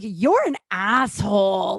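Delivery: loud, slow, drawn-out insult; retold angry outburst. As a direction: retell the insult loudly, stretching it out. Retelling angry message to the man.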